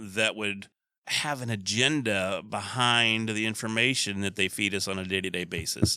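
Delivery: sarcastic, fake-sincere tone.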